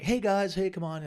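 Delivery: loud, high call to the room; rally a noisy crowd. Retold or imitated. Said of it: "So I went on and kind of like".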